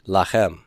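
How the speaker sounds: "Lachem" with the weight on "chem"; end-stressed "Lachem", la-CHEM; stress on last syllable. Shown as a demonstration. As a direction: lean on the final syllable of "Lachem". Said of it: "stress is gonna be on those".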